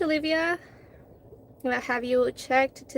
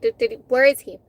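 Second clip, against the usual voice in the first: angry; 6 dB louder than usual. Retold or imitated. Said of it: "loaded and pissed".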